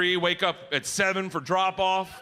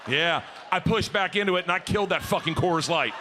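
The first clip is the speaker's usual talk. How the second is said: shouting. Real, not acted. Shouting to the crowd.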